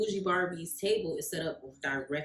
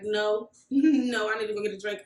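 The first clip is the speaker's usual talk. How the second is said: louder, higher, laughing through nerves; nervous laugh; 4 semitones higher, 7 dB louder than usual. Retold or imitated. Nervous reply, laughing, shaking.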